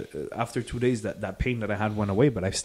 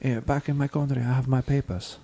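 imitating neighbor; 4 semitones higher than usual. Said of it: "I'll try my best to do it in English".

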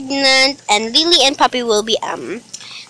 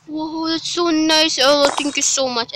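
higher, drawn gasp of gratitude; pretend delighted surprise; 5 semitones higher than usual. Babysitter thanks the child for presents, pretend delighted surprise. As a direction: play being amazed by a gift.

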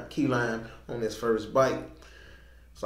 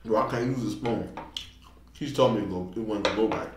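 chewing between words; talking around food; mouth full of food. Real, not acted. Seen 0: Spoon bites right before; lips and cheeks show chewing while speaking.

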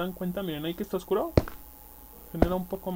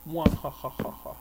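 evil villain laugh; mock sinister cackle; mustache twirling villain. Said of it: "Sonidos macabros del averno".

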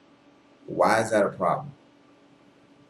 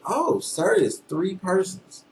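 higher, drawn-out mock conclusion; mock realization; 8 semitones higher, slower than usual. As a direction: voice a silly deduction, slowly and higher. Voices an absurd imagined conclusion.

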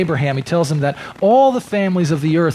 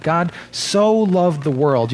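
slow, with the word so drawn out and weighted; lingering on the word so to make a point; stress on so; 3 semitones higher, slower than usual. Shown as a demonstration. Preacher slows on so for the congregation. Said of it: "the importance of that word so".

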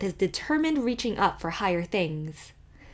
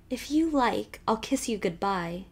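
chokily; 2 semitones higher than usual. Acted. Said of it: "she said chokily".

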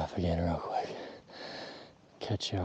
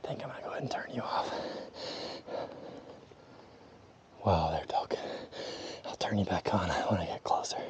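whispering. Real, not acted. Elk close, turning camera off.

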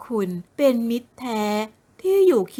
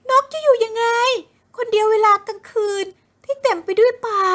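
much higher, tearful pleading; crying; 11 semitones higher, 4 dB louder than usual. Acted. Kanokporn begs Thira not to leave her, crying. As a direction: plead through tears. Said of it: "กนกพรร้องไห้".

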